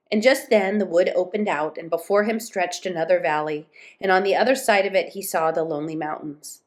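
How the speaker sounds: measured storybook reading; story narration. A narrator's reading. Moomin Troll alone in the winter wood, story narration. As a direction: read the tale aloud, phrase by phrase.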